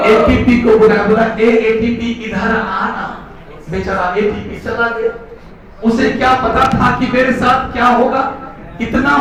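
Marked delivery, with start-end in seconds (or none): 1.2-3.2 drawn-out, slow loving call; sweetly coaxing. Acted. Glucose luring ATP over, sweetly coaxing. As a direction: coax them over lovingly, stretching the words. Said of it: "प्यार से किसको बुलाया".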